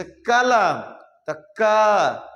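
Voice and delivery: कलम, then a long, heavy क; stress on क. Shown as a demonstration. Teacher showing where force falls in कलम, stressed क. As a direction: press hard on क and stretch it out. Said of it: "पर ज्यादा ना बल लग रहा".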